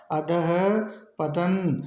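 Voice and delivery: अधः and पतन said as separate parts with a pause; split pronunciation. Shown as a demonstration. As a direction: break अधः पतन apart for the class. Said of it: "शुद्ध होगा". (अधः और पतन अलग-अलग, बीच में रुककर)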